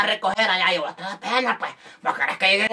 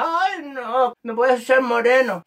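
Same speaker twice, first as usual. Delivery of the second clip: lightly mocked whine, higher start; whining returnee; 3 semitones higher than usual. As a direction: put on a fussy complaint. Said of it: "Y ahora te cae". (queja fingida y quisquillosa)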